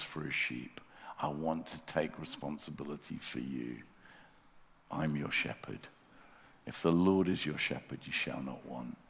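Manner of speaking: hushed, tender promise to a weary soul; gentle voice of God. Pretend. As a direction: speak it like a shepherd to a lost sheep. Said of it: "God says".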